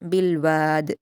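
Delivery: slow, melodic Quranic recitation; measured Quran recitation; tajweed recitation. Shown as a demonstration. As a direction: recite it slowly and carefully as a model for students. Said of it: "रा को पुर पढ़ते हुए हम जल्दी पढ़ेंगे".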